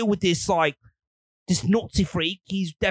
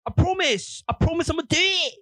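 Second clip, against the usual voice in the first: whiny pleading; 6 semitones higher than usual. Retold or imitated. Voicing Hitler pleading.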